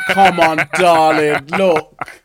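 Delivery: loud, coaxing sales patter; pushy claims salesman. Acted. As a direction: schmooze them into making a claim. Pitching a claim to accident victim.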